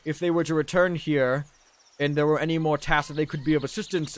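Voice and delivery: polite, slightly hesitant advocate; earnest Undrill pleading. Acted. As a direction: plead respectfully with a commander on others' behalf.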